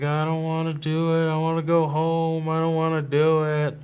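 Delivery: imitating a crying son; imitated tearful whine. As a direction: retell a kid's tearful protest, drawn into a whine. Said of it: "and he is crying".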